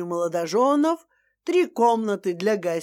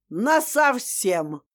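отрезала; much slower than usual. Acted. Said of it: "отрезала Светлана Ильинична".

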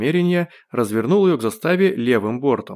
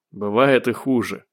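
slow, mildly consoling delivery; sympathetic. A narrator's reading. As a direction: console an old friend gently. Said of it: "сочувственно кивнул Родионов". (сочувственно)

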